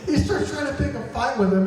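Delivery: high-pitched, through real laughter; amused, voice lifted by laughter; laughing. Real, not acted. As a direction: repeat it while cracking up.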